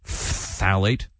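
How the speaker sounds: questioning "Phthalate" with a long hissing ph-th; spitty PHTHALATE. Shown as a demonstration. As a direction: draw out the opening consonants of Phthalate, rising at the end. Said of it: "when you say that word".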